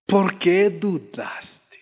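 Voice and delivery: very slow, drawn-out reproachful question; retold rebuke. Preacher repeats Jesus' question to Peter, slow retold rebuke. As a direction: let each word hang in gentle reproof. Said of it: "lo reprendió y le dijo".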